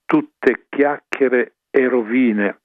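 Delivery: slow, weighty words of rebuke; stern outburst. Retold or imitated. Old friar rebuking the general, slow and stern. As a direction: lay down each word like a verdict. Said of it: "ebbe un gesto violento e disse".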